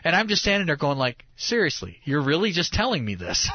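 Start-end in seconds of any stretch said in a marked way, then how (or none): 1.4-3.5 higher, incredulous retold question; mock disbelief. Reacting to the guide's story about a band, mock disbelief. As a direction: act out being taken aback.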